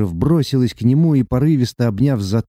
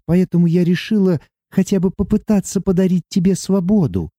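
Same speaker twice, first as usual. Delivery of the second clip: put-on higher young woman's voice, tearful and earnest; young heroine; 6 semitones higher than usual. Sati confessing her love to Luka, tearful and earnest. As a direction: pour out love through tears. Sati's held voice.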